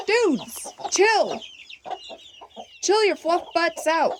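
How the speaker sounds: high, sharp scolding; high exasperated scold at chickens; scolding hens. Real, not acted.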